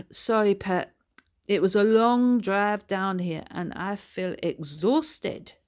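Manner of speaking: a weary auntie apologising; lightly voiced tired old woman; tired Bertha. Bertha tired after drive.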